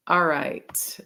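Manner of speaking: a brief whispered aside; whispered all right. Real, not acted. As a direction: drop to a whisper for a moment. Quiet aside between points.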